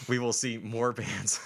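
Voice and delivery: slow words through laughter; laughing. Real, not acted. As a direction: restart while cracking up. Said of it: "A serious moment just got ruined".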